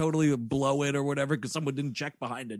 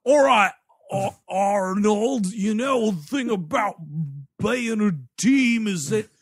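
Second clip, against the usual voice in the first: mock pep talk; 3 semitones higher, 4 dB louder than usual. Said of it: "bad at covering up his Australian accent".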